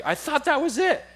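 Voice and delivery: high, exasperated mock wife voice; wife imitated, exasperated and high; mimicking wife. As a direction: pitch up to play the fed-up wife.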